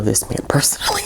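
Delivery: mock-secretive whisper; whispered aside. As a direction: lean in and whisper it as a joke. Joking aside about the author.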